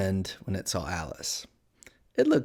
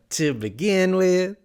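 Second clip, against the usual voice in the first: high, slow cat character voice; explaining Cheshire Cat; 9 semitones higher, 5 dB louder, slower than usual. A narrator's reading. Cat starting its proof, slow and high. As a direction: draw it out, pitched up.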